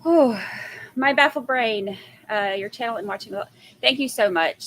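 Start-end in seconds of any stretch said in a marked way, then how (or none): 3.8-4.7 loud, bright thanks; excited. Real, not acted. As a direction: burst out with gratitude. Thanking viewers for super stickers.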